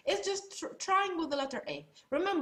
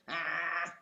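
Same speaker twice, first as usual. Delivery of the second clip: choked ah; 6 semitones lower than usual. Shown as a demonstration. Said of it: "just like you're choking yourself".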